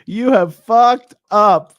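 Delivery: high-pitched, breaking with laughter, slow loud finish; laughing dog impression. Streamer voicing the dog judging its owner, helpless laughing. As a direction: squeal the dog's verdict through laughter. Voices dog while cracking up.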